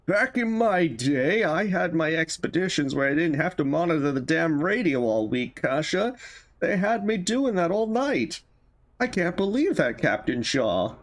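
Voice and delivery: put-on a weakly held old sailor grumbling; old man voice. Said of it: "trying to do the old man voice".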